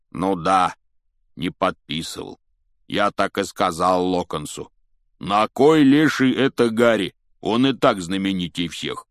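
lightly voiced big fellow; a hint of a hearty giant; good-natured giant. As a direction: rumble it out with emphatic bursts.

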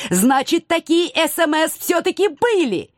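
high-pitched accusing exclamation; triumphant cry. A narrator's reading. Woman accusing the cat over his messages, crying out in triumph. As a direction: pounce on the admission, pitch climbing high. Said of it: "кричала я, отплёвываясь песком".

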